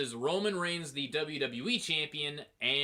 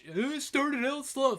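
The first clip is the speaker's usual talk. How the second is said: mocking complainers; 11 semitones higher, slower than usual. Mocking complainers, then retorting.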